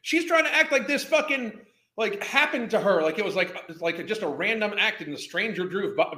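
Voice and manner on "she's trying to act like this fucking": laughing loudly in disbelief. Real, not acted. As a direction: blurt it out through a laugh. Laughing rant at the clip.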